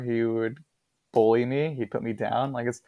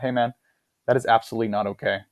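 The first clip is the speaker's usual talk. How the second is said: retold firm boundary, measured voice; firm, serious. Confronting the bar bully about hitting, firm and serious. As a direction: stand your ground without raising your voice. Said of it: "I was super firm, very serious".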